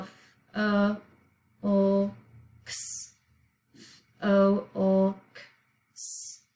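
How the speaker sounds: "f, o, o, k, s" as spaced sounds, L voiced; think-to-spell pronunciation. Shown as a demonstration. Teacher reminding pupils how to spell the plural, sound by sound. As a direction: sound out "f, o, o, k, s" twice, hissing the final s. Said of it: "we're thinking to spell".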